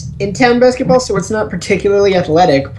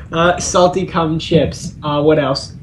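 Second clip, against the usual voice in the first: slow lower ad-read voice; lightly voiced pitchman; salesman voice; 5 semitones lower, 4 dB quieter, slower than usual. Playing along with ad pitch.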